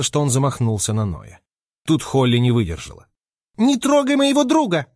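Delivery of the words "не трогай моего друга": much higher furious little squeal; high shrieking yell; squeaky shout. A narrator's reading. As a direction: scream at him to back off. Squirrel loses it, defends friend.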